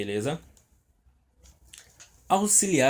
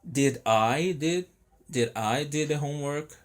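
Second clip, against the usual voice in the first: slow demo question; 2 semitones higher than usual. Shown as a demonstration. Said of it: "passando pro interrogativo".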